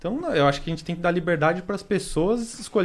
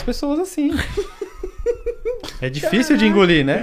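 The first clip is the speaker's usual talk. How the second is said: laughing while talking; 8 semitones higher, 7 dB louder than usual. Real, not acted. Absurd robbery story, laughing.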